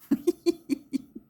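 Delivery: a bright high burst of laughter. Real, not acted. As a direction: laugh up high at your own joke. Laugh after teasing phone.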